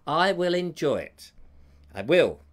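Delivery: forced, deliberate assurance through gritted teeth. Pretend. Reassuring Joe about Sunday's filming, through gritted teeth. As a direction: grit it out, insisting with put-on resolve. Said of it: "Through gritted teeth".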